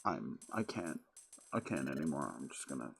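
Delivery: low, soft, faltering; mock defeated. Player pretending to hide from the webcam, quiet mock defeat. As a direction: trail away haltingly as if giving up.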